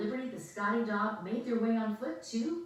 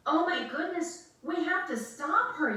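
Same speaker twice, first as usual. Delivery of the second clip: higher, louder urgent cry; alarmed yell; 9 semitones higher, 5 dB louder than usual. Acted. Girl sees dog heading for the Oval Office, alarmed yell. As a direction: shout in alarm. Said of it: "yelled America".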